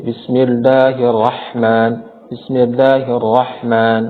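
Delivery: "bismillahirrahman" recited slowly, its ha sounding like kha; mispronounced ha. Shown as a demonstration. Teacher showing a common recitation slip, ha turned kha-like. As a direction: draw out "bismillahirrahman" with a faulty kha-like ha. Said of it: "seperti kha".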